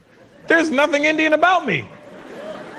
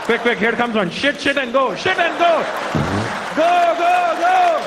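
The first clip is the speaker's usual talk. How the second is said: mock urgent orders; 2 semitones higher than usual. Imagined hired man at the plane door, urgent commands. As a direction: hurry someone along, ever more urgent.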